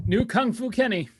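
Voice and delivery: excited. Acted. Hyped nickname announcement.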